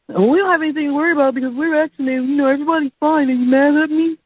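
high, fast mocking girly voice; mocking white girlfriend. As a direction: rattle it off in a high, sing-song mock of the girlfriend. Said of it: "He's like".

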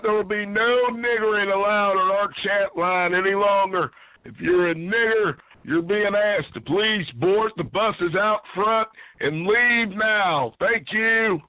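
formal PA announcement; announcer voice. Acted. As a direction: read it like a station announcer. Mock public address announcement.

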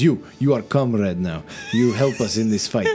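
put-on light Russian-accented comrade cat; mild Russian accent, earnest. Russian blue welcoming the paladin, light Russian accent. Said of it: "he says".

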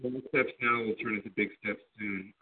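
hollow sound, like down a well; echoey phone line. Real, not acted. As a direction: speak as if from the bottom of a well. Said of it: "you sound like you're in a well right now".

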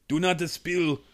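put-on slow, lightly done Cajun accent; a hint of a bad Cajun drawl, slowly. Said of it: "worst Cajun accent of all time".

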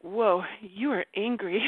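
slow, calm naming of her own anger; calm noticing. Retold or imitated. Retelling the mouse moment, calm and slow. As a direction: speak slowly and gently, just noticing the anger. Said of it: "and I was like".

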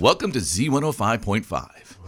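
radio voice. Shown as a demonstration. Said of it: "radio voice showdown".

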